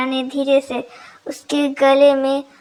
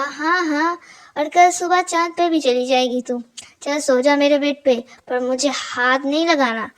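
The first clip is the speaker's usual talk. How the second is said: lightly voiced dry sarcasm; a hint of mocking disbelief; sarcastic. Meera teasing Tara, who begs to share the bed, sarcastic. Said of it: "sarcastic tone में कहा".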